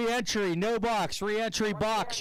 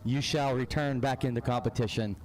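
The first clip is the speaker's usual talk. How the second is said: lightly voiced priest, lower and solemn; a hint of a blessing priest, pitched lower; mock priest; 5 semitones lower than usual. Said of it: "and he will say".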